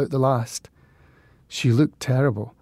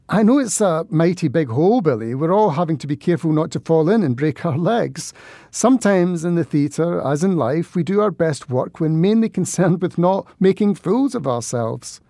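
fatherly; 2 semitones higher than usual. Acted. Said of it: "in as fatherly a voice as I could concoct".

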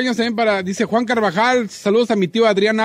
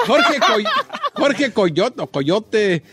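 laughing; 3 semitones higher, much slower than usual. Real, not acted. Laughing shout-out on radio.

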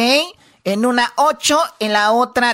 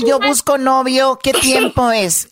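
slow, word by word; slow dictation; slower than usual. Shown as a demonstration. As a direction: dictate it slowly for the class. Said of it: "dime la frase".

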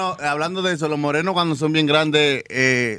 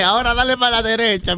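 instructing grandmother; 4 semitones higher than usual. Pretend. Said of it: "y que te dé instrucciones".

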